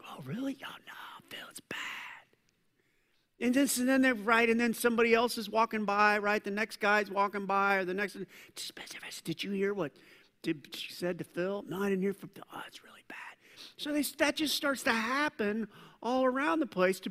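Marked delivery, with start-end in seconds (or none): 0.1-1.8 soft, unvoiced gossip; whispered reply. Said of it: "this whisper thing". 9.2-13.2 softer hushed rumor passing; passers-by trading rumors, whispered; gossip whisper. Retold or imitated. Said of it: "whispering side of that phrase".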